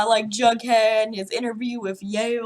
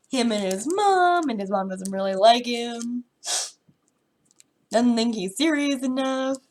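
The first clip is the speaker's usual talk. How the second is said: sick, nasal and congested; blocked nose. Real, not acted. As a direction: talk through a stuffed-up nose with a cold. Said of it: "if I sound nasally and congested".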